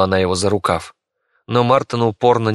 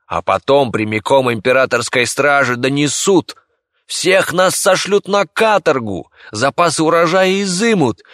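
a raised, hectoring peasant voice; angry villager; 5 semitones higher, 3 dB louder than usual. Acted. Villager warning the doctor Bey, in a raised hectoring voice. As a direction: lecture him like a suspicious villager.

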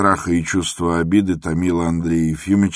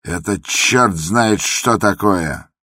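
slow indignant cry, a little louder; outcry; 4 semitones higher, 4 dB louder, slower than usual. Acted. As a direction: burst out in outrage. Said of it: "вскрикнул вдруг Иван Дмитрич". (возмущённый вскрик)

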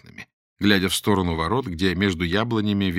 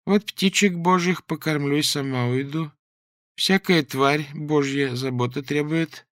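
put-on slow, sing-song pious old woman; 6 semitones higher, slower than usual. The old woman tells the man about feeding birds, pious. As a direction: speak like a meek church granny.

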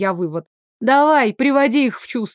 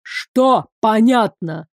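slow, rising anger; blowing up; slower than usual. Acted. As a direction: prince starting to lose it at the guard. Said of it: "Пошёл в разнос Вышеслав".

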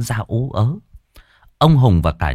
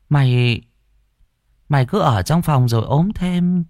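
calling through a door; 7 semitones higher than usual. Acted.

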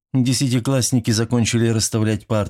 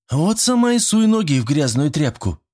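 indignant; 9 semitones higher than usual. A narrator's reading. Vereshchagina rejects the rag idea, outraged. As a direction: throw it back at her, offended. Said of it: "возмутилась Верещагина".

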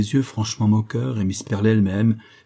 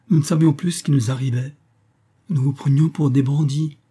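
higher, lightly amused delivery; amused relief, pitched up; giggly; 5 semitones higher, 3 dB louder than usual. A narrator's reading. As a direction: say it as if tickled, voice lifted. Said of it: "pouffa Calinette".

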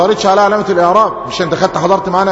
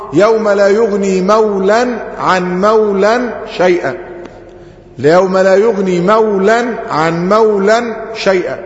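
slow chanted recitation of the verse; Quran recitation; slower than usual. Shown as a demonstration. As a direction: recite it slowly, tajweed style. يعيد تلاوة الآية مرتين. (تلاوة مجودة بطيئة)

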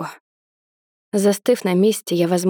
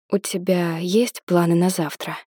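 timid and quiet. Acted. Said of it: "Спрашиваю тихо, с боязливостью".

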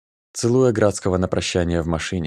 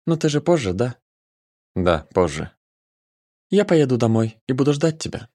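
put-on tender girl voice; 6 semitones higher than usual. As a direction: coo it, pitched high. Nika, high girl voice.

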